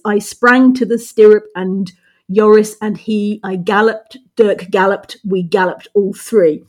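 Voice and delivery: "I galloped" in a galloping rhythm, stress on "gal"; two light beats then a strong one, as in "we galloped all three"; anapestic verse demo. Shown as a demonstration. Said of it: "by Browning is anapestic".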